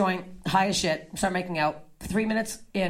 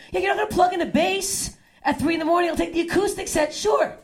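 higher sarcastic reply; 7 semitones higher than usual. Retold or imitated. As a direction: humor him sarcastically.

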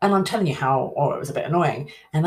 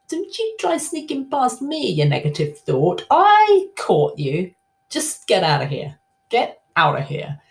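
scolding the thought; 4 semitones higher, 4 dB louder than usual. Pretend. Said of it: "Go, "Oh, hang on a minute".

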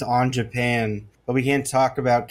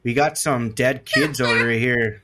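put-on Midwestern accent. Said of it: "are you doing Canadian now?".

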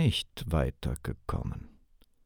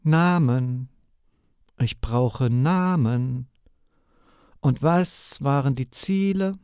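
stern demand; 6 semitones higher, 5 dB louder than usual. Acted. Interrogator demands names.

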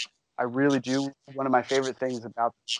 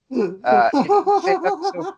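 said through a high laugh, much higher; 6 dB louder than usual. Real, not acted. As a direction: laugh the words out, giggling. Laughs mid-sentence about the show.

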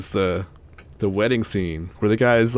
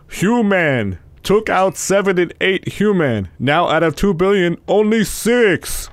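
slow, raised pompous proclamation; hammy movie villain; 5 semitones higher, slower than usual. Retold or imitated. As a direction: imitate a B-movie alien, stretching the last words. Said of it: "there's some good lines".

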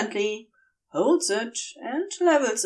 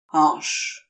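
strangely raw; 6 semitones lower than usual. A narrator's reading. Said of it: "his voice strangely raw".

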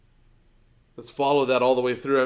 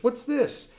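put-on higher-pitched sing-out to a small child; doting father; 11 semitones higher than usual. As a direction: voice a dad coaxing his little girl. Father quizzing his small daughter.

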